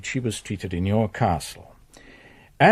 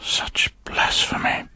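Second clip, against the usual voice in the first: shocked whisper. Acted. Priest's shocked private aside.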